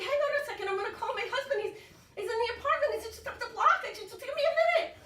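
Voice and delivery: high-pitched, agitated stalling; acted rising fluster; frantic pleading. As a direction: plead urgently for time. Pleading with mechanic to wait.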